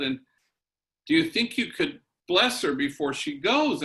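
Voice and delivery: anxious, hurried plea, pitch jumping up on "Oh, no"; a worried dad rushing to ask a favour; retelling a father's panicked phone call, lightly voiced; a bit of panic. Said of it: "with a little bit of panic in his voice".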